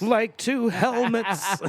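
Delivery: high, drawn-out laughing repeat; amused disbelief through laughter; laughing echo. Real, not acted. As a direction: echo it slowly, cracking up. Laughing echo of a crude line.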